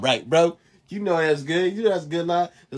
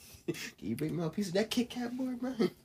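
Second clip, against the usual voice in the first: very hushed, very quiet, stifling giggles; 4 semitones higher, 11 dB quieter than usual. Reading out a line while trying to keep a straight face, holding back laughter. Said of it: "can't say it without trying not to laugh".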